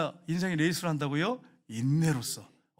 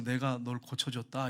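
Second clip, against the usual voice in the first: lower, slow, gentle pronouncement; a lightly voiced tender Spirit; 5 semitones lower, 4 dB quieter, slower than usual. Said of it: "성령님께서". (낮고 느린 부드러운 성령님의 음성)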